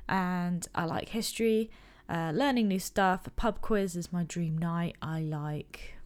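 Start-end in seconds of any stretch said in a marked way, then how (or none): 5.0-6.0 whisper. Real, not acted. Whispered list item.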